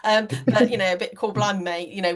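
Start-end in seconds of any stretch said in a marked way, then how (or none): 0.9-1.9 a hint of mock cor-blimey accent; matey, dodgy accent, only lightly done; dodgy non-Welsh accent. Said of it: "that really dodgy type of accent".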